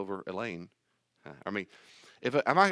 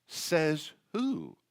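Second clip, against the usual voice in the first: challenging retort; 5 semitones higher than usual. Acted. Challenging the skeptic.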